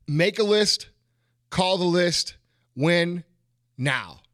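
rhythmic chant of the motto; dad's rhythm. Retold or imitated. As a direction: make a list, call the list, win now in a steady chanted beat. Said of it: "that's how he would say it".

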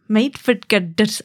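"made for girders" slowly in bad Scottish, Rs not rolled; second go at Scottish "girders", the R slipping away; half-hearted Scottish "made for girders", slightly drawn out; failed Scottish accent. Shown as a demonstration. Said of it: "I can't do it".

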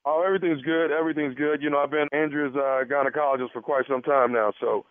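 lightly voiced casual physician; a hint of a doctor's measured patter; put-on doctor. Prankster posing as gynecologist to the husband, casual.

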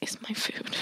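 hissed under the breath, unvoiced; seething whisper. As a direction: whisper it like you're fuming at the table. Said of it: "And I'm sitting there like".

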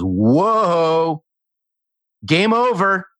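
high, mock stern cutoff; imitating the CFO. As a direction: cut the salesman off in a high, put-on voice. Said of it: "He goes".

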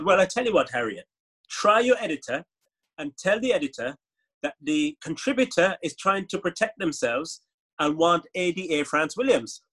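put-on Caribbean accent with a lilt; Caribbean Man. Persuading the journalist to try the editor, Caribbean accent. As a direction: coax them in a parody Caribbean accent. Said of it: "when I was doing Caribbean Man".

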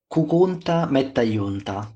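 slow Sicilian dialect saying. Shown as a demonstration. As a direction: say it slowly in Sicilian. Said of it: "Adesso lo dico in siciliano". (proverbio in dialetto siciliano, lento)

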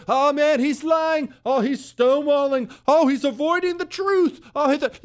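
high mocking whine of fake outrage; mock GOP outrage. Mocking Republicans who only complain, high whiny outrage. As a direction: squeak out the fake shock, hammed-up.

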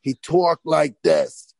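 lightly imitated Long Island man, loud; light mock impression of the beauty school boss; Harvey Fierstein. Hairdresser showing how the beauty school boss talked, Fierstein impression. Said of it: "sounded like Harvey Fierstein".

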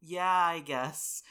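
slow, dragged-out grudging yes; reluctant agreement. Real, not acted. Cohost grudgingly agreeing to take questions, slow reluctant. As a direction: drag it out reluctantly.

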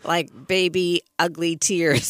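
laughing through the words. Real, not acted. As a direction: giggle it out while telling. Laughing while recalling crying.

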